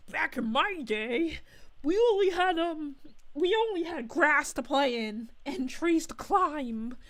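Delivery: half-hearted back-in-my-day elder; mock old-timer. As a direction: playfully put on a grumpy grandparent voice. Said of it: "now I sound like".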